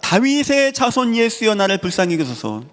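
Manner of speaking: a beggar's desperate plea, stretched out; second cry, refusing to be silenced; desperate shout. Retold or imitated. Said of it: "또 외치는 겁니다".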